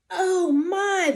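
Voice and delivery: a startled, high gasp of oh my. Acted. Possum startled seeing the robot, gasping. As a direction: catch the breath in sudden fright. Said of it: "the possum gasped".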